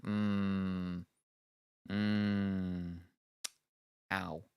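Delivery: sore mouth groans; pained hums and ow. Real, not acted. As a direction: hum then wince in pain. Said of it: "my mouth was swollen and very sore".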